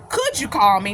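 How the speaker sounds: measured, mock-polite asking. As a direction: pose it as a question. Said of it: "went from asking me".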